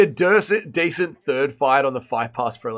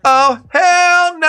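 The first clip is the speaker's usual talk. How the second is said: high, slow, stretched-out refusal; a high, drawn-out, mocking no way; hammed-up hell no; 6 dB louder, much slower than usual. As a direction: drag it out in mock disgust. Mock outrage at a chat question.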